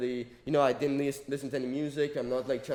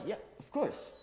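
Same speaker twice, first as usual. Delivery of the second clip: whispered aside; 7 semitones higher, 6 dB quieter than usual. Retold or imitated. Speaker answering officer casually.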